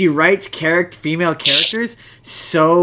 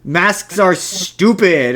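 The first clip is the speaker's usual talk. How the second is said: slow, dismissive mock voice of the director; 3 semitones higher, much slower than usual. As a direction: drag out the scorn on stupid. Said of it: "Rian Johnson being like".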